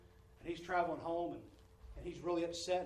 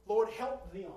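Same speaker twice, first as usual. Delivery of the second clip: prayer; 3 semitones higher, 8 dB louder, much slower than usual. Retold or imitated. Voiced prayer for others.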